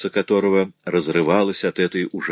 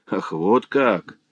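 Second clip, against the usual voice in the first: biting irony; much slower than usual. Acted. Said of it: "с присущей ей язвительной иронией".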